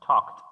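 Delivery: talked said loud with a K-T ending; talked as one syllable, "tokt"; two final sound hits. Shown as a demonstration. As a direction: finish talked on two distinct stops, K and T. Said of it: "hay dos golpes de sonidos al final".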